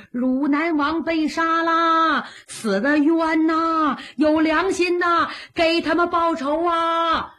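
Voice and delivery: high, drawn-out wailing street cry; crowd calling out. Acted. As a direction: call out to the whole town in grief. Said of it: "一边跑一边喊".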